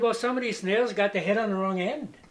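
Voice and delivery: put-on Norwegian accent. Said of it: "talk that way".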